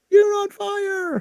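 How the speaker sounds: high, slow, booming game announcer; announcer catchphrase. Retold or imitated. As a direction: belt it like the arcade announcer. NBA Jam announcer quote.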